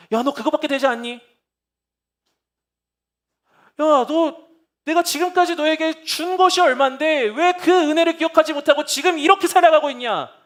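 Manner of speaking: loud, high scolding reproach; imagined accusing rebuke. Pretend. 실패한 우리를 꾸짖는 목소리를 상상하며, 크게 꾸짖듯. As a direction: scold as a harsh accuser would. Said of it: "주님이 주시는 생각이라고 우리가 착각할".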